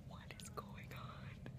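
hushed bewildered whisper. Real, not acted. Confused in a hospital bed, whispering to the camera. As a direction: whisper it so the nurses don't hear.

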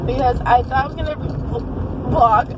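hiccup cuts off the word; speech broken by a hiccup. Real, not acted. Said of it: "I have the hiccups so bad".

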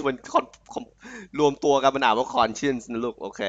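conscience แยกพยางค์ con- แล้วรวมเป็น คอน-เชินซ์; ค่อยๆ ออกเสียง con- แล้วรวมคำ conscience; syllable by syllable. Shown as a demonstration. (ออกเสียงทีละพยางค์แล้วรวมคำ)

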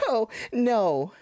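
shouted no; loud cry of despair. Real, not acted. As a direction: yell no as you fall. Falling in game.

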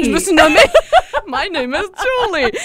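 stilted schoolbook introduction, laughing; amused mock-recitation of a textbook phrase; mock beginner English. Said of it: "des phrases que j'ai apprises en secondaire un".

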